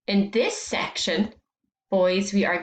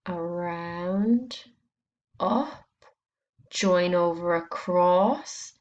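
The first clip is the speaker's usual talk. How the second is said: slow letter formation; 2 semitones lower, slower than usual. Shown as a demonstration. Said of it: "how we write our O sound".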